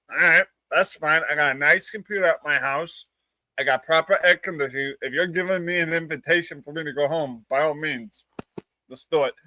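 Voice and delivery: understated mock acceptance; sarcastic. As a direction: play along with the insult, lightly sarcastic. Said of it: "That would be my sarcastic response".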